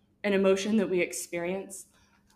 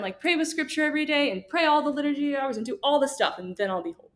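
overeager mock enthusiasm; 3 semitones higher than usual. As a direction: rattle it off like a zealous beginner. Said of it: "we're like".

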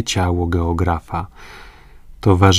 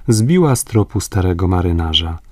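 usual speaking voice

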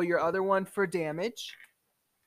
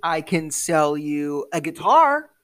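lightly voiced dwarf trader's offer; Gander; 3 semitones lower, 7 dB louder than usual. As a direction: draw out the offer with a hint of salesmanship. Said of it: "I'm a salesman".

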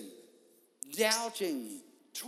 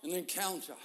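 quiet answer; 3 semitones lower, 6 dB quieter than usual. Acted.

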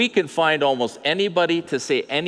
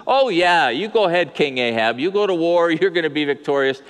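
sarcastic; 4 semitones higher, 3 dB louder than usual. Retold or imitated. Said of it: "he's always sarcastic".

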